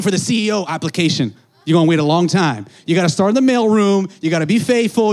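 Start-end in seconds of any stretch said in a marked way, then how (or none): 1.7-5.1 preaching build. Real, not acted. Preacher exhorting the crowd, loud and raised. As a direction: drive it home to the church.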